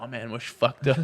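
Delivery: laughing imitation. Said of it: "Il racontait cette histoire".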